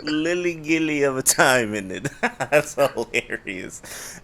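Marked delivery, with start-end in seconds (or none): 0.0-2.1 put-on posh English accent. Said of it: "their accent's posh".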